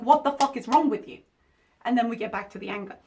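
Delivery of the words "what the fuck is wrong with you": louder, scolding a reckless friend; exasperated yelling. Retold or imitated. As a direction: bark it at her in disbelief. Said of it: "slap her in the face and be like".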